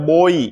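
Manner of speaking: बॉय gliding to a clear 'ee' ending; correct boy pronunciation. Shown as a demonstration. Teacher giving the pronunciation, bo-ee with clear ending. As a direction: say बॉय as 'bo-ee'. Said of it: "इसकी जो pronunciation होती है".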